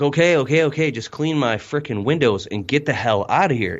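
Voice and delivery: mock exasperated brush-off; annoyed customer. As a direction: customer fed up with pushy questions. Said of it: "you feel like they're like".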